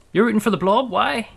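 loud, high indignant protest. Real, not acted. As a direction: call out the chat in disbelief. Indignant at viewers in chat.

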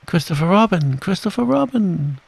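high urgent call, rising on the repeat; crying out. A narrator's reading. Piglet cries to Christopher Robin for help, high and urgent. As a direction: call for rescue, pitched right up. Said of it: "cried Piglet".

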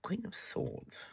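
slow yawn through the words. Real, not acted. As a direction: say it mid-yawn. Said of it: "I do apologize for this yawning".

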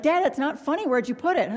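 put-on high childish whine at dad; whiny kid voice. Daughter whining to her dad about the lost thinking cap.

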